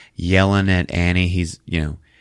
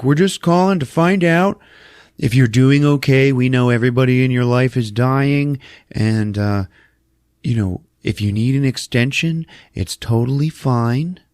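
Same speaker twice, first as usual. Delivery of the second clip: lightly higher, courteous phone manner; lightly imitating a considerate caller; polite gallery caller; 5 semitones higher than usual. Gallery phones the grieving artist.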